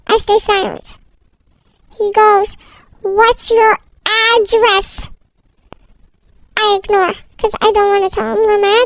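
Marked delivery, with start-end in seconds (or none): 3.0-5.1 very slow, word-by-word question; insistent repeat. Acted. Stranger presses a silent child for an address, very slow and insistent. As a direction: draw each word right out, pressing for an answer.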